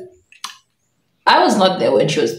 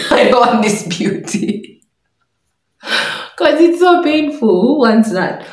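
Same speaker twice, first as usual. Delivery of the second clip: high, whiny complaint through laughter; hammed-up pained wail; mock whining protest; 7 semitones higher, 3 dB louder than usual. Girl objecting to painful beauty, mock whine.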